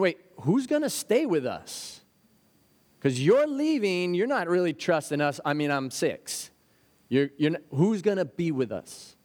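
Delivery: put-on a small child asking who will stay; pleading six-year-old. A lightly voiced six-year-old asking parents who stays with him.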